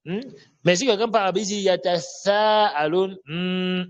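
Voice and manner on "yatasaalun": YATASAALUN with th in place of s; wrong th recitation. Retold or imitated. Teacher quoting a reciter who changes the word, th for s. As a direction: lisp the s of YATASAALUN, drawn out. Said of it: "il a changé".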